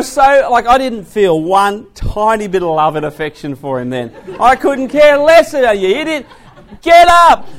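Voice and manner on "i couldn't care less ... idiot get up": much higher and louder yell; retold kid yelling; mock angry shout. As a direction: bark at the brother lying in the mud. Kids yelling at fallen brother.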